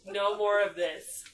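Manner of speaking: slow fed-up plea; exasperated. Real, not acted. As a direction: drag it out, done with them. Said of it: "guys, stop".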